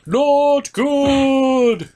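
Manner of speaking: high, loud shout. Acted. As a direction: yell it out in alarm. Thor answers in the toy scene.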